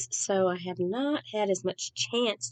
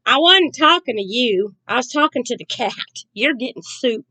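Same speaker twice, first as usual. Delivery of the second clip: a mild retold holler, louder on the first line; mock holler; 3 semitones higher, 5 dB louder than usual. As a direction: playfully call back across the house, not really shouting. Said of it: "And she hollers back".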